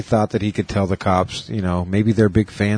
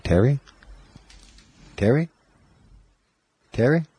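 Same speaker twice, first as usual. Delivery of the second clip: put-on child calling out; 5 semitones higher than usual. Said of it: "calling my name".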